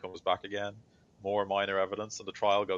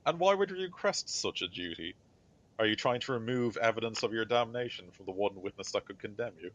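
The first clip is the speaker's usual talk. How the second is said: higher-pitched, demanding judge voice; stern tribunal judge; 4 semitones higher than usual. Acted. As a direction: question the accused like a presiding judge. Game master voices the judge.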